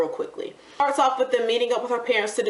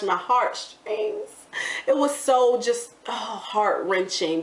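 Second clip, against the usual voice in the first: moved; 2 semitones higher, slower than usual. Real, not acted. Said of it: "even I got a little emotional".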